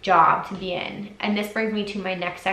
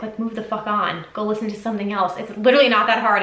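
angry. Real, not acted. Telling trolls to move on, angry and exasperated. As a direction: brush the haters off, exasperated. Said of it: "that just made me so angry".

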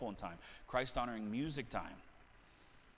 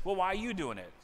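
put-on higher, cheeky kid comeback; mock child retort; 5 semitones higher, 4 dB louder than usual. Preacher imitating a child answering back. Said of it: "When you grow up".

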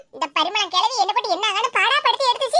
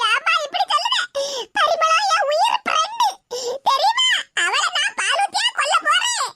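higher, indignant tearful cry; offended protest; 4 semitones higher than usual. Acted. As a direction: insist she's her dearest friend. Offended, defending herself. (கோபமான வருத்தம்)

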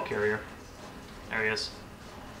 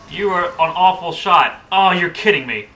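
cover me shout; 5 semitones higher, 6 dB louder than usual. Real, not acted. Frustrated gamer yelling at teammates.

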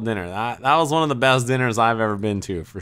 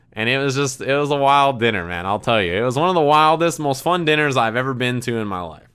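ordinary talk

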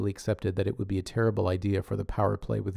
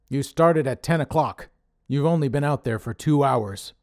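louder, gruff-voiced boss scolding; Dave's scolding voice; 5 semitones higher, 6 dB louder than usual. A narrator's reading. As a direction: play Dave the bossy leader, chewing him out. Dave scolding Connor.

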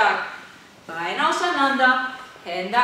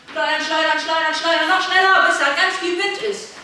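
higher, building in volume; urging on; 5 semitones higher, 3 dB louder, faster than usual. Real, not acted. Coach urging children to swing the belt faster, excited. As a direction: egg them on to go faster.

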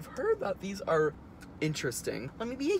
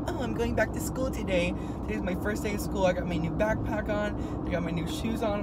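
lightly higher excited schoolkid voice; mock excited kid; 4 semitones higher than usual. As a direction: play a giddy first-day student. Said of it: "funny Instagram story where I was like".

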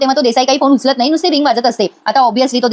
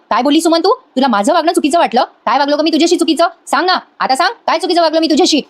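retold angry yelling; 5 semitones higher than usual. Husband confronts his wife from the doorway, retold yelling. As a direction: imitate a husband demanding answers, pitch raised. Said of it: "लगेच ओरडायला लागतो".

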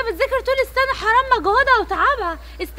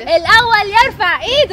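loud, slow demonstration call; a mother demonstrating a street-seller cry; vendor demo; 5 dB louder than usual. Shown as a demonstration. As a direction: show her how a seller shouts. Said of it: "وريني الأول لما بيبيع بيعمل إيه".

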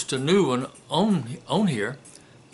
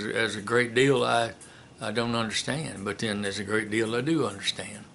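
put-on Carl Childers quote; 2 semitones lower than usual. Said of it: "Carl Childers said in that, in the movie Sling Blade".

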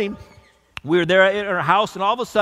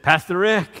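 mild sheepish mumble; understated shy greeting. Retold or imitated. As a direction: say it a bit embarrassed, head down. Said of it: "in kind of a sheepish voice".

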